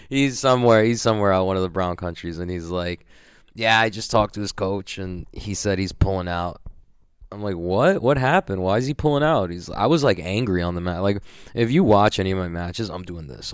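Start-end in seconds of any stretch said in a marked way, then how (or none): 3.5-6.6 mimicking the organizer with a bit more color; a mild mock take on Mo breaking the news; impression of Mo. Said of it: "That's my impression of him". 7.6-9.5 higher, louder "what happened?"; retelling his own shocked reaction; a replayed burst of disbelief; surprised. Reacting to the opponent withdrawing.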